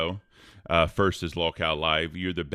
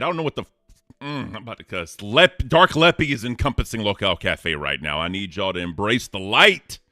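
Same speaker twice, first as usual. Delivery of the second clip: louder, heated rant; angry; 5 dB louder than usual. Real, not acted. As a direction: let the anger out. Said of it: "bringing out the anger in you".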